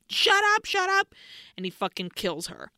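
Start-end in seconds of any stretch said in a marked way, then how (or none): 0.1-1.1 high shouted shut up, retold scream; imitated scream. Recapping a show's killer screaming at a woman, high mock yell. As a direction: belt it out like the killer screaming at her. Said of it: "he's screaming like".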